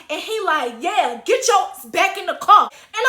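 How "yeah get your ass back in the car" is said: loud, imitated bossy echo; mock man piling on. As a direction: chime in with someone else's order, louder. Man echoing the mother, mocked.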